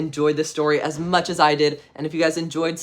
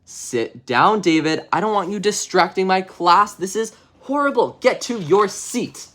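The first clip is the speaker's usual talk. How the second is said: annoyed teacher; 4 semitones higher, 4 dB louder than usual. Acted. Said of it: "the teacher says".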